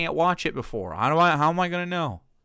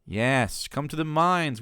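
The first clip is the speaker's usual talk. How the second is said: based patriot voice; 2 semitones higher, much slower than usual. Acted. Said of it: "put on the mask of based Patriot seventeen seventy-six".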